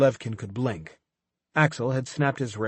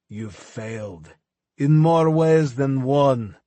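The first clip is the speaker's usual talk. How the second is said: manic taunting villain; 5 semitones higher, 4 dB louder than usual. Acted. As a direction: laugh at them through the pain. Levkin taunting after being shot.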